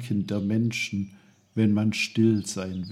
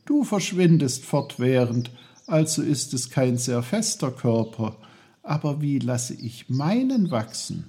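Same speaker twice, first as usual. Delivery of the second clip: put-on lightly raised, reasoning child's voice; questioning boy Peter; 4 semitones higher than usual. Peter's voice in story dialogue.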